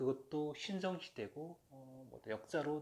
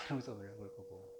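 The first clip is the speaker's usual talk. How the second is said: usual speaking voice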